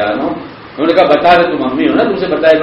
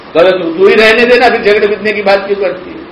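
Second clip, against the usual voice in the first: mock scolding; 5 semitones higher than usual. Husband scolding wife, acted.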